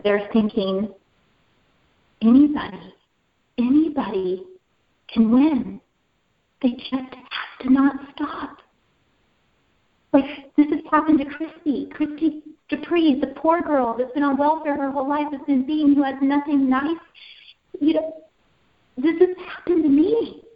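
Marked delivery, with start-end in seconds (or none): 2.2-8.6 emphatic realisation. Real, not acted. Triumphant thought on winning crown. 10.1-20.4 higher, fervent build; impassioned. Real, not acted. Speaker telling Richard her story, impassioned and higher. Passionate climax of testimony.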